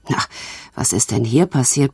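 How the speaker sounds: a potter grumbling as he comes downstairs at night. Acted. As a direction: mutter it low like a sleepy craftsman. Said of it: "brummte er".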